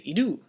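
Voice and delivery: idu stressed high on the second syllable; upward inflection. Shown as a demonstration. Teacher has students say idu, upward inflection. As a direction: lift the end of idu. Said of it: "speak with an upward inflection".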